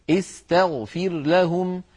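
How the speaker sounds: استغفر said slowly, as istaghfir; slow example. Shown as a demonstration. Teacher shows استغفر slowly, for students. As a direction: stretch out استغفر with kasra. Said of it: "هل لاحظتم الفتحة على التاء".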